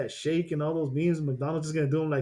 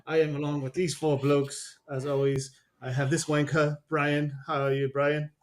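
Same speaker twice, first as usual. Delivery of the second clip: put-on British accent; 3 dB louder than usual. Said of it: "You know what's so funny about that accent".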